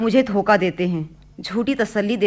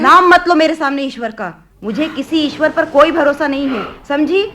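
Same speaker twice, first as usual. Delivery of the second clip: angry outburst; 3 semitones higher, 3 dB louder than usual. Acted. Daughter rejecting God angrily.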